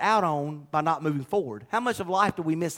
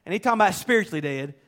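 Jesus' command; 2 semitones higher, 4 dB louder than usual. Retold or imitated. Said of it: "Jesus said".

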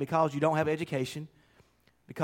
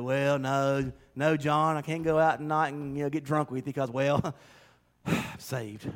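eye-rolling reluctance; 4 semitones lower, 3 dB quieter than usual. Pretend. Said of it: "rolling your eyes saying".

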